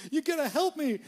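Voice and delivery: high, whiny plea for help; mock pleading. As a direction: beg like a helpless homeowner. Pleading with plumber.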